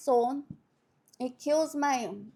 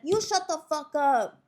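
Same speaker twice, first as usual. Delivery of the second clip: higher comeback with YOU stressed; imitated angry retort; 4 semitones higher, 4 dB louder than usual. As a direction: throw it back, hitting YOU. Acts second inmate snapping back.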